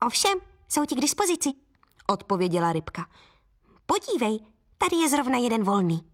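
a hint of an eager tiny fish explaining; obliging little fish. (ochotná rybka, vyšší hlásek)

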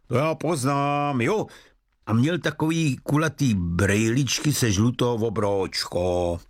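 a hint of a knowing old florist; chatty florist. Florist describing the lovesick boy to detectives, knowingly.

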